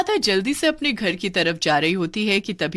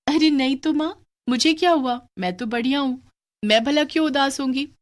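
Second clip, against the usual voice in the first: put-on higher, brighter little girl brushing it off; young girl; 6 semitones higher than usual. Radha reassuring her mother she isn't sad, higher girl voice. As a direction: pretend everything is fine.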